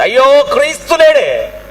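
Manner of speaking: high, drawn-out wail; slow, high-pitched cry of loss; acted tearful lament. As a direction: cry out in mock grief. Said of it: "క్రీస్తు లేడని ఏడుస్తుంది".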